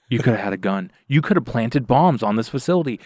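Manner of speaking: alarmed scolding. Retold or imitated. Her alarmed scolding of the intruder.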